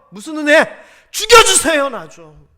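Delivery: high, loud, desperate begging; desperate plea. Acted. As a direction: beg to die in exasperation. Moses begging to die, acted. (절박하게 높고 크게 애원)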